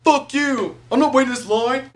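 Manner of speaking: hammed-up yell of refusal; mock angry shout. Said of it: "It's not like I walked and was like".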